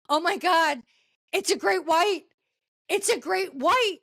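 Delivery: a hammed-up cry of alarm; retold panic. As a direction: imitate a panicked shout at a shark. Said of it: "you can hear the panic in the guy".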